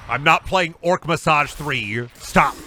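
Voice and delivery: slow, emphatic shouted no. Real, not acted. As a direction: shout it down slowly. Refusing chat's request.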